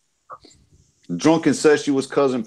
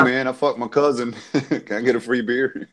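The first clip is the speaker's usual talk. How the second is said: half-hearted South Carolina accent; Southern US accent. Shown as a demonstration. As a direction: attempt a mild American Southern accent. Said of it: "say that in southern South Carolina".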